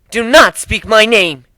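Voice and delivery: a cornered cat hissing; hissed. Acted. Nadine warning the captain not to say her name, hissing. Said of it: "she hissed like a cat does".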